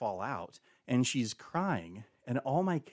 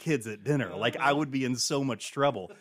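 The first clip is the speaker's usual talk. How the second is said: louder, flustered protest; flustered denial; 3 semitones higher, 6 dB louder than usual. Retold or imitated. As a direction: insist you never said it. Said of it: "I'm like".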